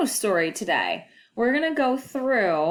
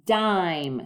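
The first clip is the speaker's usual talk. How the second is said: slow sound-out; much slower than usual. Shown as a demonstration. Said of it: "Dim turns to dime".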